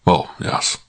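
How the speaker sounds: soft, unvoiced whisper; whispered yes. Wolf answers the discreet phone call in a whisper. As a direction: hush it as if overheard.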